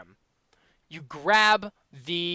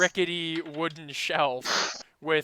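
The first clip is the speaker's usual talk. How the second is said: raised voice over crosstalk; loud; 13 dB louder than usual. Real, not acted. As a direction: push it out over the table noise. DM talking over laughing players.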